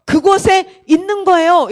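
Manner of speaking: lightly imitated preacher pressing questions; a hint of pulpit insistence; pastor's challenge. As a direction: press each question on the congregation. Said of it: "이런 얘기를 하는 거예요".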